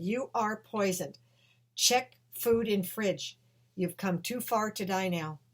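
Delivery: slow and deliberate, a touch of solemn warning; slow vision voice. Retold or imitated. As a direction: deliver it like a message from beyond, unhurried. The vision warns her.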